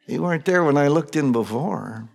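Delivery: half-laughing, baffled protest; laughing disbelief. Acted. Mary laughing in disbelief at the angels in the tomb. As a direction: chuckle through the words as if she can't believe it.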